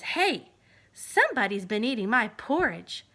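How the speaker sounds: gruff indignant papa; Papa Bear. Acted. Papa Bear finding his porridge eaten, loud and low.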